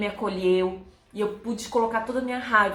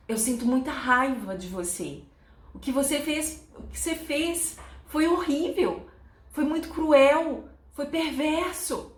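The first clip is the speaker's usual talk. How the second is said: mildly angry retold reproach, growing higher; controlled anger; 5 semitones higher than usual. Woman telling him what he did was cruel, controlled anger. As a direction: reenact letting anger out without aggression. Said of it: "de boa, mas expressando a raiva".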